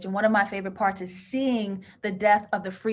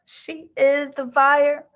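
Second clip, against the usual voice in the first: slow emphatic; 4 semitones higher, 6 dB louder, much slower than usual. Real, not acted. Emphatic verdict on the outfit.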